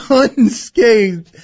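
amused echo; laughing. Real, not acted. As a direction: laugh it back. Host echoes through laughter.

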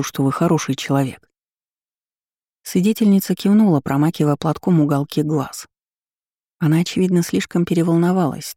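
calm him down gently; gentle. Acted. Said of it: "Макс говорил мягко, как с ребёнком". (мягко, как с ребёнком)

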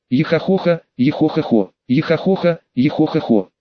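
eerie echoing chant from a skeleton. Acted. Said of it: "Голос скелета жутким эхом".

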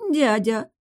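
high, pitiful cry of dyadya; scared girl calls uncle; pitiful rasp. A narrator's reading. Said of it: "жалко просипела девушка". (жалко, испуганно, высоким голосом)

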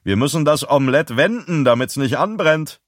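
jolly mocking lilt; cheerful. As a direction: chirp it merrily while being cruel. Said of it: "sagte jemand fröhlich".

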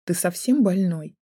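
slow, incredulous question; stunned. A narrator's reading. Student reacting to the man's demand, mildly stunned. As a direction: question his sanity, a touch appalled. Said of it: "ошарашенно воскликнула я".

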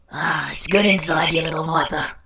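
lightly acted rough Australian lover, half whispered; rough Australian accent. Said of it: "in that rough Australian accent".

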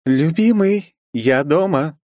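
high, loud sing-song call of a wife coming home; high excited greeting; cheery wife calling out. Acted. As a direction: call out brightly from the doorway. Wife enters calling husband.

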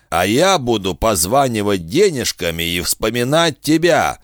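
a hint of a smug bargaining villain; sly bounty hunter. Kusaka voiced in narration.

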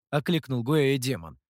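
plain reading voice

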